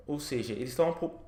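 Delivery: speech cut off by a hiccup; talking through hiccups. Real, not acted. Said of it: "Tô com soluço".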